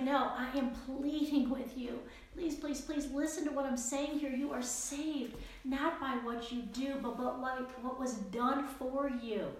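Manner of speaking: Paul begging his listeners to listen; earnest pleading. Retold or imitated. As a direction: beg them to hear you. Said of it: "He is pleading with them".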